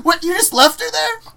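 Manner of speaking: high, loud mock disbelief; incredulous yell. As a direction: shout it, outraged and amused. Ordell retold, incredulous.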